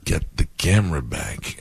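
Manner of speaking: slow, lightly voiced wrestler; a hint of drawn-out wrestler speech; Randy Savage. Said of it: "I love talking as Randy".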